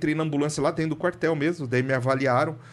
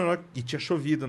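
ordinary talk, nothing marked

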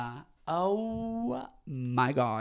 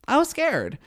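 high and loud, hamming up the fear; high loud mock fright; 10 semitones higher, 5 dB louder than usual. Real, not acted. Reviewer recalling Scuttlebutt, squealing in mock fright. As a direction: squeal it in playful dread.

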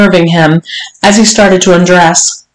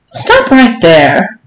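slow, drawn-out command to halt; cutting him short; much slower than usual. Acted. Mistress interrupting her servant, firmly cutting him short. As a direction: halt him with measured authority. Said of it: "Missus Johnson cut him across".

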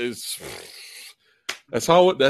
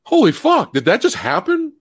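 retold disbelief; 10 semitones higher than usual. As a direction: replay the jaw-drop moment. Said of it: "Like, it felt".

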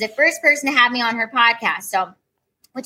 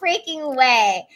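higher, slow, drawn-out disbelief; 5 semitones higher, much slower than usual. Retold or imitated. She hears Alex Jones is coming, slow amazed disbelief. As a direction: stretch it out, amazed. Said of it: "And I was like".

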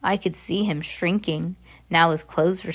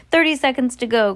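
higher, raised announcing voice; crying out; 5 semitones higher, 4 dB louder, faster than usual. A narrator's reading. Grand High Witch gripping Bruno's arm, crying out the time. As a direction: call out the countdown.

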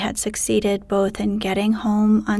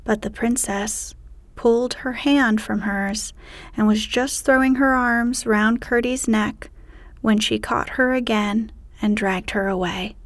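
ordinary delivery, nothing marked

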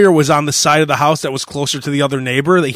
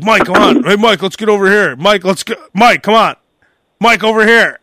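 urgent calling; 5 semitones higher, 4 dB louder than usual. Retold or imitated. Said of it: "I kept saying stuff like that".

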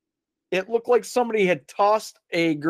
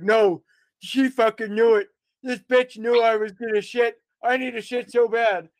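dad freaking out; 4 semitones higher than usual. Retold or imitated. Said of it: "freaking out".

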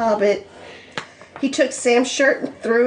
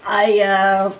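halting, nervous admission with a laugh; hesitate, then blurt the end; mildly nervous, broken by pauses; faster than usual. Acted. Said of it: "he said nervously".

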